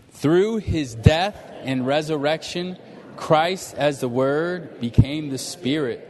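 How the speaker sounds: slow, measured group recitation; reading aloud together. Real, not acted. Preacher leading the room through point C, slow reading aloud. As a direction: read it out slowly for all to follow. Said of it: "let's all read it".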